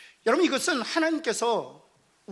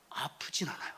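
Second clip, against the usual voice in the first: breathy whisper, almost no voice; 6 semitones lower, 9 dB quieter than usual. Acted. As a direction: drop to a hushed whisper. Whispered aside in sermon. (속삭이듯 조용히)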